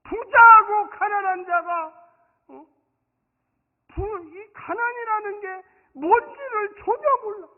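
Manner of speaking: loud, high, slow proclamation; impassioned, high-pitched sermon outcry; full-force preaching. Real, not acted. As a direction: drag out each phrase with force.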